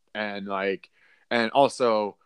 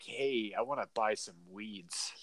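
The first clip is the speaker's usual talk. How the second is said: timid, much softer voice; imitating a nervous, sketchy first-time buyer; intimidated; 2 semitones lower, 10 dB quieter, slower than usual. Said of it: "so intimidated".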